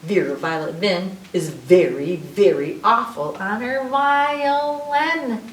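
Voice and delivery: playful rhyme, slowing and rising at the end; reading to children. Acted.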